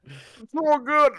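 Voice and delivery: high, slow fake pleasure; mock delight. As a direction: pretend it tastes wonderful. Mock praise of sour candy.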